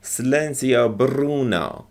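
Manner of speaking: Bruno with the R trilled; rolled Italian R. Shown as a demonstration. Teacher repeats the line for students, rolling the R. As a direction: roll the R in Bruno Italian style. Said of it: "you see how they roll their R's".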